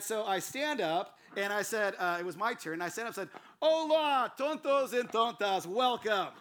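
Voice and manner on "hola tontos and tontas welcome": high, loud, hearty hello to a crowd; booming greeting. Retold or imitated. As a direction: greet the whole room big and proud. Acts out greeting the congregation.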